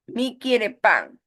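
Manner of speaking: put-on slow, childlike mispronounced grammar; mock toddler speech; imitating a small child. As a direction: say it slowly like a toddler learning to talk.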